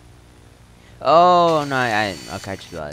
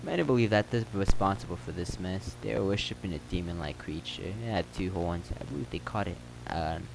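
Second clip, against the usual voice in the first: local telling a town legend in a lightly put-on accent; slightly acted storyteller; lightly voiced townsman; 2 semitones lower, 3 dB quieter than usual. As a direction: spin the rumor as an in-game character.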